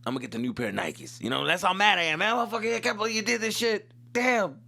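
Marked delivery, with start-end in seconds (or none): 2.2-4.6 mock rioter rant.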